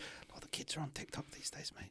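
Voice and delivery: hushed, soft, breathy whisper. Asking the other speaker whether they use TikTok: whispering. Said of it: "I don't know why I'm whispering".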